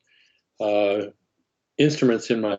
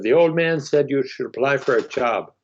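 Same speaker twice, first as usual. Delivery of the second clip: higher, light Pennsylvania Dutch lilt; Pennsylvania Dutch accent; 4 semitones higher than usual. Retold or imitated. Foreman relaying the old man's message, lightly Pennsylvania Dutch. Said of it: "accent, he said".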